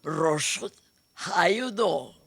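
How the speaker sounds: incredulous mother, rising high on how you know. Retold or imitated. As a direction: mimic mother's Russian-accented disbelief. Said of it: "Mother wheeled upon her, incredulous".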